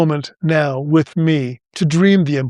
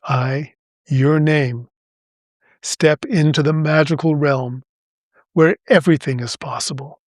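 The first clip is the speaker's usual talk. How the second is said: slow, phrase by phrase. Shown as a demonstration. Host closing the affirmation for listeners, slowly and deliberately. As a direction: leave space after each phrase. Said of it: "I'll say it slowly, phrase by phrase".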